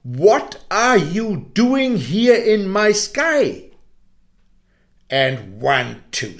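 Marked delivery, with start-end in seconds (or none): 0.0-3.7 mild stern sun. Acted. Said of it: "looking at him with glowing eyes".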